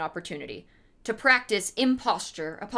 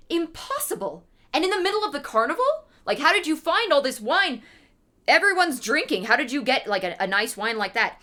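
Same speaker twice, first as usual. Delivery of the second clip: high, fast, eager disbelief; a drunk man thrilled by the wine; amazed Fortunato; 5 semitones higher than usual. Acted.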